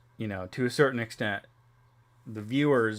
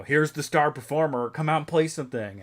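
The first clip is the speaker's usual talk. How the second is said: slightly raised, lightly imitated introduction; mock showing-off relative; 4 semitones higher, 4 dB louder than usual. Family pushing mom to play, lightly imitated eager urging. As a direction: lightly mimic someone presenting a performer.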